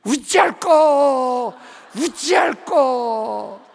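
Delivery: loud, slow Gyeongsang dialect shout of 우찌할 거; slow shouted Gyeongsang-dialect ghost cry. Retold or imitated. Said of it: "경상도 귀신 들으면".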